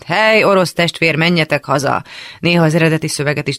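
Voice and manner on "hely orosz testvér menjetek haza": ordinary delivery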